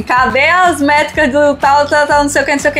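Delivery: impatient demand. Retold or imitated. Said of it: "Eu mandei pra ele hoje, assim".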